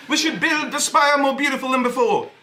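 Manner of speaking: a comic attempt at a French accent; mock French accent. Comedian doing Macron's speech in a mock French accent. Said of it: "I can't do a French accent".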